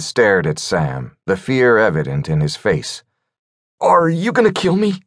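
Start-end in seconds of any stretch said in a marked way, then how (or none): 3.8-5.0 high, frightened quavering question; a trembling scared plea. Acted. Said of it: "in a quavering voice".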